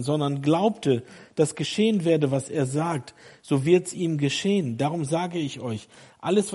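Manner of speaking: emphatic Bible reading, pressed and insistent; forceful scripture reading. Real, not acted. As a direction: proclaim the verse with rising force.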